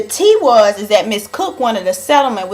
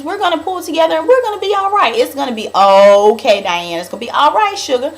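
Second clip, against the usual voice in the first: reassuring Bunny; 5 semitones higher, 3 dB louder than usual. Retold or imitated. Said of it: "Bunny was just letting her know".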